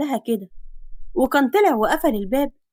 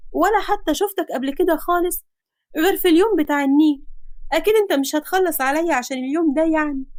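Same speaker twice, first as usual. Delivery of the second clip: put-on higher girl's voice, a touch tearful; mild mock crying; 5 semitones higher than usual. Frightened girl pleading with him, lightly tearful. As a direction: plead while holding back tears. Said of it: "وهي بتعيط جامد".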